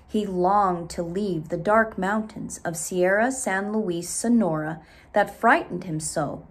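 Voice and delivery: put-on lively read-aloud storytelling for children; story narration. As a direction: tell it to a class of kids. Reads story to class.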